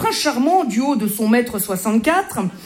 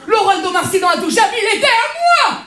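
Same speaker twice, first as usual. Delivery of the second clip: mock sobbing; 9 semitones higher than usual. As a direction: whimper it like a big baby. Répète sa plainte en pleurnichant. (pleurnicherie jouée, aiguë et lente)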